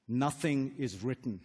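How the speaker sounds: slow, hushed quote of Lawrence; quoting Lawrence. Retold or imitated. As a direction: lay the line down slowly, like a film hero. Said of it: "And he says to him".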